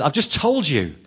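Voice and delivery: a touch of a cross driver snapping back; retold anger. Taxi driver refusing passenger, mildly mock angry. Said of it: "got really angry and said".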